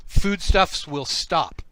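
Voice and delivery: telepathic slug voice. Acted. Game master as slug to intruders, slow loud command. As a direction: boom it slowly into their heads. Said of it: "a voice that says".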